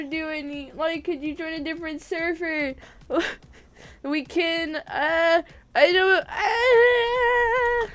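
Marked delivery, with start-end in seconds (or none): 6.3-7.9 whine. Real, not acted. Stuck on how to respond.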